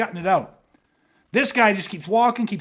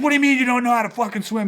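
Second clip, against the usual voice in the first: fast, higher-pitched mock disbelief; retold incredulous outburst; 4 semitones higher, 4 dB louder, faster than usual. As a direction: fire it back as the baffled instructor. Instructor reacts in disbelief.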